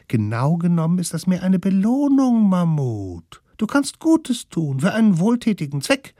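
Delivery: high, gentle smallest-one's voice; calm him like the littlest one; high coaxing kid voice; soothing little kid. Acted. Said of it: "Doch der Allerkleinste beruhigte es".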